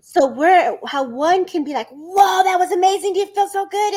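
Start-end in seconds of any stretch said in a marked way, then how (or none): 1.9-3.9 mock amazed. Voices a person after healing.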